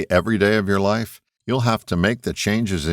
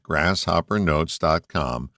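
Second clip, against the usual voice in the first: slower, measured web address; careful repeat; 3 semitones lower than usual. Real, not acted. Host repeating his website for listeners, careful and slower. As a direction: say it slowly so they catch it. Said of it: "let me repeat that".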